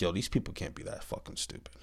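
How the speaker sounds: whispered, disbelieving mutter; a soft unvoiced aside to yourself. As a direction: say it under your breath in disbelief. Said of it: "I'm like".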